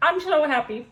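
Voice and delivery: talking with a mouth full. Real, not acted. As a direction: say it through a mouthful of food. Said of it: "I forgot my, my mouth full".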